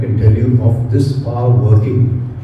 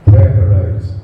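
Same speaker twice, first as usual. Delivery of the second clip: "Prayerize" said out louder and lower; loud proclamation; 6 semitones lower, 4 dB louder than usual. Shown as a demonstration. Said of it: "I've made a word out of it".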